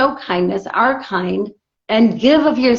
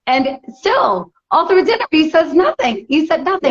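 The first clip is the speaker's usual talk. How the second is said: higher, exasperated retelling; pitched-up exasperation at the husband; 5 semitones higher than usual. Retold or imitated. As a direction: let the outrage climb. Building outrage at husband's silence.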